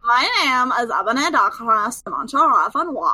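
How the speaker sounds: put-on ditzy Valley Girl read. Shown as a demonstration. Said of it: "in Valley Girl voice".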